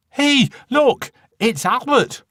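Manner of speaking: high, loud startled cry of a mother; Mother shrieks out as she spots her son; surprised cry. Acted. Mother sees her swallowed son at the window, shrieking in surprise.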